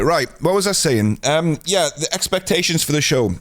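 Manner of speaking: winded from running up the stairs; out of breath. Real, not acted. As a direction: talk while catching your breath. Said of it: "I've just run up and down the stairs".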